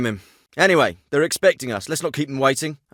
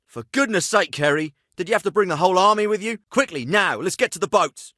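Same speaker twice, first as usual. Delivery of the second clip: higher, hurried exasperation; urgent, fed-up reproach; exasperated scolding; 3 semitones higher than usual. Acted. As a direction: scold them while rushing them along. Same scolding line, repeated.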